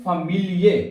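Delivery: "Familie" with the final e clearly sounded; "Familie", with the e at the end pronounced, never dropped; clear German e. Shown as a demonstration. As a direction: say "Familie" as fa-MI-li-e, giving the last e its own syllable. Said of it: "ये वाला ए जरूर पढ़ना है".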